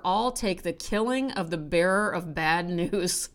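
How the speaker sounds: lightly performed essay reading with dry wit; reading aloud. Acted. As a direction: read the paragraph like a droll columnist. Reads a Fran Lebowitz paragraph.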